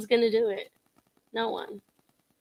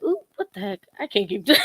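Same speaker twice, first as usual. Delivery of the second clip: mock surprise; 3 dB louder than usual. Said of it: "you're like".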